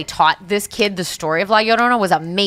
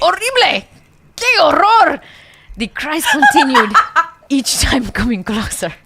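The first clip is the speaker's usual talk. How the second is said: high, loud hammed-up Mexican accent; 7 semitones higher, 5 dB louder than usual. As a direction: overdo a Mexican accent, laughing. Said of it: "read it in a Hispanic accent".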